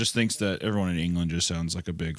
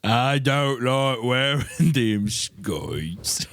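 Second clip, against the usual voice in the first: very slow, higher, garbled Scottish; exaggerated mock Scottish accent; 6 semitones higher, 4 dB louder, much slower than usual. Repeating the misunderstood skirt line, exaggerated Scottish accent. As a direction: stretch every word in absurd Scottish.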